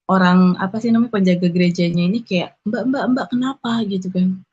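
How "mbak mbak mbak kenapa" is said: higher-pitched imitation of a concerned guard. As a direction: check on a crying visitor, lightly acted. Penjaga menanyai perempuan yang menangis. (menirukan penjaga yang khawatir, nada tinggi)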